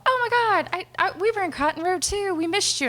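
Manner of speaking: high, loud excited squeal; excited gush. Retold or imitated. Imitating Sarah gushing to a friend she missed, high and excited. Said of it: "Sarah's all".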